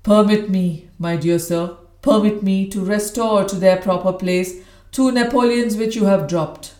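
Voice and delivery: put-on rough, loud old soldier's voice; hoarse voice. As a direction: call out hoarsely from behind. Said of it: "a hoarse voice behind me cried".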